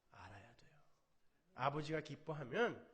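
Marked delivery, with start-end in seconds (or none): 0.1-0.7 breathy hushed emphasis; whisper. Real, not acted. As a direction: lean in and whisper it. Whispered point. (자녀는 알아야 한다고 회중에게 속삭이듯)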